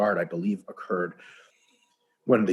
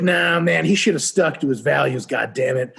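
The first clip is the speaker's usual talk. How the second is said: loud, higher, laughing mockery; mocking scorn; 5 semitones higher, 5 dB louder than usual. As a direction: sneer at the stubborn alien and laugh. Mocking the stubborn alien.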